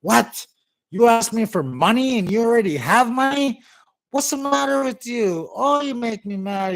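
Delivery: high, loud indignant father's outburst; dad mad again. Retold or imitated. Dad yelling at son who already had money. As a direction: scold the boy for hiding money. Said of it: "And Dad gets mad again".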